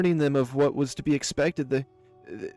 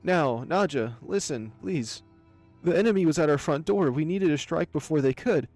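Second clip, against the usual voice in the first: nervous pleading; 5 dB louder than usual. Acted. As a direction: beg the predator to hear you out. Cornered baron pleads with lioness.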